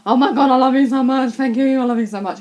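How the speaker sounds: loud, gushing fangirl outburst; hammed-up overexcited adoration; re-enacted freak-out. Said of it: "I was, like, freaking out".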